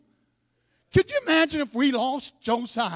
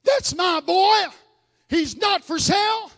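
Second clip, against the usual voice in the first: mother crying out; 4 semitones higher, 4 dB louder, slower than usual. Retold or imitated. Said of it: "Would Mama cry out".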